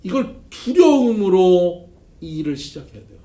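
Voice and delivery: loud, pressed stress on 두려움으로; emphatic preaching. Real, not acted. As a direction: preach it hard, hitting 두려움으로. (두려움으로를 힘주어 외치듯)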